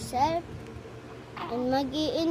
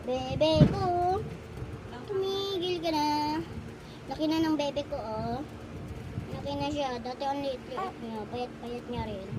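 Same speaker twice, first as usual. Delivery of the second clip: tender. Real, not acted. Cooing to baby softly.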